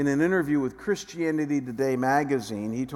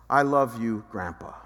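put-on tender child's words; 5 semitones lower than usual. Grandson's voice over phone.

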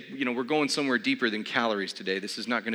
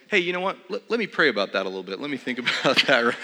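polite Christian brush-off; 4 dB louder than usual. Retold or imitated. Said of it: "the Christian, you know, Heisman".

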